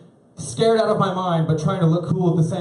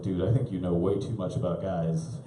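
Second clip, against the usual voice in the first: laughing through it; 8 semitones lower, 6 dB quieter than usual. Real, not acted. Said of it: "I was like".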